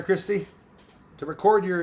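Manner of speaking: ordinary talk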